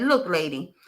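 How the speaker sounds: frustrated customer pushing back. Retold or imitated. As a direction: push back on the waitress, mildly exasperated. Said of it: "Seriously hungry and frustrated".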